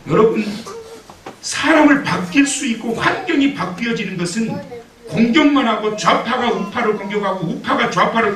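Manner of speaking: high, loud preacher's voice; fervent preaching. Acted. Pastor preaches passionately to the congregation, high and loud.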